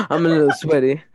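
laughing. Real, not acted. Repeating friend's line, laughing.

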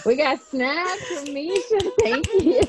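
high, slow, delighted thanks; light up with real joy; giggly and thrilled. Real, not acted. Delighted at snaps.

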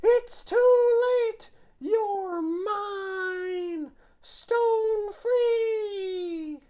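high, shouted triumphant yell; battle cry. Acted. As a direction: scream the attack name.

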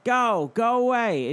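mock yell at the lady; retold yell. Retelling a man yelling at a woman, mock yell. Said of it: "watching this guy fucking yell".

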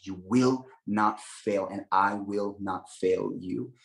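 slow, tender promise; gentle reassurance. Retold or imitated. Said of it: "And he's like".

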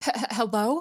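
imitation d'un « allô » hésitant; hesitant stammer. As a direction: stammer the first sound, like someone caught off guard answering. Brother answers phone at night.

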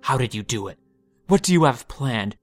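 loud, strained accusing voice; rising anger, shouting her down; shrill and grating. Acted. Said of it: "his voice grating and shrill against her calm".

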